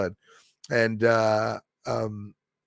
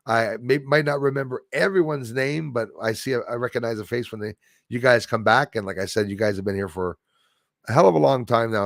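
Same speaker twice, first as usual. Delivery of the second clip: ordinary delivery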